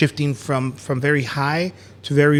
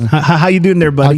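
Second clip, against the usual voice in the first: loud, mocking buddy greeting; goofy teasing voice; 5 dB louder, faster than usual. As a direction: talk to him like a kid.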